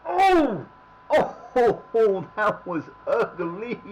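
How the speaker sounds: loud, laughing oh-ho that stretches slowly; laughing exclaim. Real, not acted. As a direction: crack up at the ugly play. Laughing at an ugly play.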